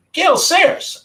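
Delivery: high, loud, amazed; high awed cry of a name; awed exclamation. Real, not acted. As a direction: say the name with wonder.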